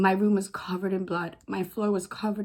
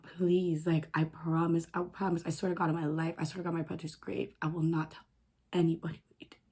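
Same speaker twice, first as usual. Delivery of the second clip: retold plea, soft and fading; desperate begging; 3 semitones lower, 6 dB quieter than usual. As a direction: swear it under your breath, pleading. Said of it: "I begged and I begged".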